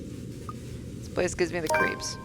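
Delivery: slow, breathy hushed fear; creeped-out hush; nervous whisper. Acted. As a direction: whisper it as if the house listens.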